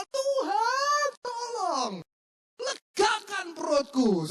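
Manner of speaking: high, slow comic plea to God; pleading prayer. Acted. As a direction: beg God for relief, hammed-up. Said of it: "cukup berdoa". (doa memelas yang dilebih-lebihkan, tinggi dan pelan)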